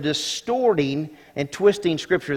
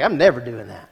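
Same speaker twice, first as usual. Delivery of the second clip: laughing refusal; 4 semitones lower than usual. Retold or imitated. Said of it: "I'm like".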